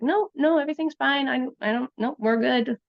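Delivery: high, hedging, brushing it all off; evasive mock answers. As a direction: imitate a nervous man dodging questions. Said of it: "giving really vague answers".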